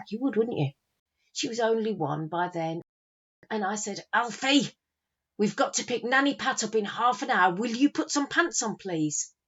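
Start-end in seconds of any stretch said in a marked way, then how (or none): 4.1-9.3 put-on higher-pitched telling-off of a child; acted exasperated mother. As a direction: call to your son, harried and insistent. Mother calling her naked son to dress.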